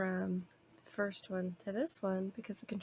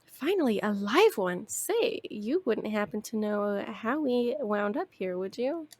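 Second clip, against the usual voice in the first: voicing Malroth; 5 dB louder, slower than usual. Reading Malroth's dialogue aloud.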